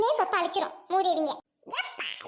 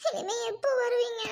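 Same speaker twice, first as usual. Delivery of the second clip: crying; 3 semitones higher than usual. Acted. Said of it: "அழாத, அழாத".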